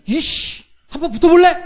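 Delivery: high, loud hammed-up challenge to a fight; mock angry challenge. Preacher acting an immature man picking a fight, high loud mock challenge. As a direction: bark out a picked fight in jest. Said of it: "이렇게 나서지 않는다는 거예요".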